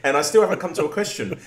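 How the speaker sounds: high, loud, laughing through the words; laughing helplessly. Real, not acted. Host laughing over his own question that went nowhere, helpless laughter. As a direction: struggle to get it out through laughter.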